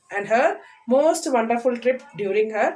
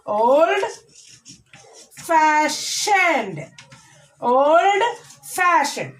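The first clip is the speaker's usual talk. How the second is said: put-on old held and lifted, pause, then fashioned stressed on fash; careful teacher's model of old fashioned, fash stressed; 3 semitones higher, much slower than usual. Shown as a demonstration. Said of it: "Stress the first syllable of the second word".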